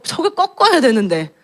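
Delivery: pressing eagerly to break his will; mother admits her urge, voice climbing; rising frustration. Real, not acted. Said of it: "너무 간절해".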